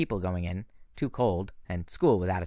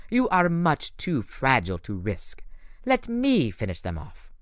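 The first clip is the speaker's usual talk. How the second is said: cruel smile; 3 semitones higher than usual. Acted. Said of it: "with a cruel smile".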